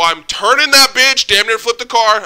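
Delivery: loud and hyped; excited. Real, not acted. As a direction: shout it with thrill. Dramatic fast turn.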